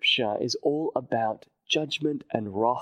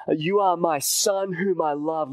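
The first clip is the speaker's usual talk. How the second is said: voice from heaven; 4 semitones higher, 4 dB louder than usual. Retold or imitated. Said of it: "a voice comes from heaven".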